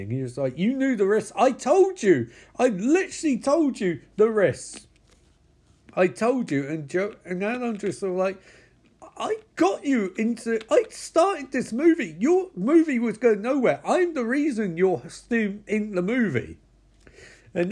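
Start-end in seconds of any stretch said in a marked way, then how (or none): 0.6-6.7 exasperated scolding. Retold or imitated. Character scolding Justine. 9.2-16.6 indignant arguing. Retold or imitated. Andrew arguing in retold movie.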